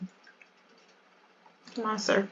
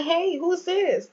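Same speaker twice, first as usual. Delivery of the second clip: high voice for Imani; 9 semitones higher, slower than usual. Acted. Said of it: "She's like".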